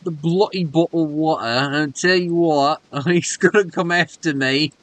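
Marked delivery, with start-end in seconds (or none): 0.0-1.4 mock British accent. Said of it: "British people".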